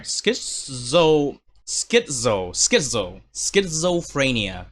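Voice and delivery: "schizophrenia" drilled slowly, "schizo" repeated; practising a word. Shown as a demonstration. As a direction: sound out "schizophrenia" syllable by syllable. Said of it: "saying it out loud is kinda hard".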